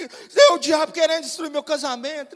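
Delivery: mock tearful outburst; a touch of hammed-up distress; imitated crying wife. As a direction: wail it lightly as a retold complaint. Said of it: "e chorando".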